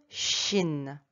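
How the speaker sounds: shin slowly, with a long SH; drawn-out shin; SH sound. Shown as a demonstration. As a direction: stretch shin from its hushing start. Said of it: "Donc ça donne".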